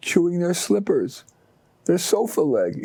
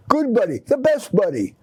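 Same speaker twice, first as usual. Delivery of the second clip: higher, bright delighted praise; exclaiming with praise; 7 semitones higher than usual. Acted. Owner praises his old dog, excited and higher. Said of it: "Again he exclaimed".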